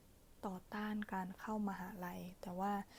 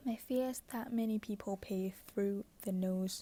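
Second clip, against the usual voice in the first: pillow talk; much slower than usual. Acted. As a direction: read it like a bedtime whisper. Reads book passage softly.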